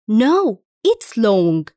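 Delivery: very slow, No stressed and falling; slow model reading. Shown as a demonstration. Teacher corrects in a drill, very slow and clear. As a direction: stretch it out for learners. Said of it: "Listen and repeat".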